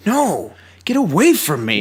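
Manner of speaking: slow, drawn-out mock refusal; mock rejection. Lied-to lover rejecting the confession, hammed-up refusal. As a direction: push them away with hammed-up outrage.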